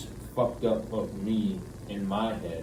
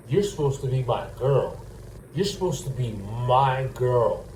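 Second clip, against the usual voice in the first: angry rant; 2 semitones higher, 4 dB louder than usual. Acted. Imagined rant at girlfriend.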